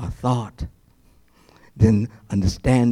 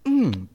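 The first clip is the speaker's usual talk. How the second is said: mock savoring; 5 semitones higher than usual. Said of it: "grab one of the tears and say".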